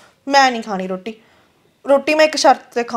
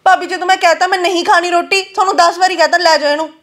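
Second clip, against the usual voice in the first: higher-pitched, impatient protest; exasperated refusal; 3 semitones higher than usual. Acted. Girl refusing the food her sister-in-law brought, exasperated. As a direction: refuse as if sick of repeating it.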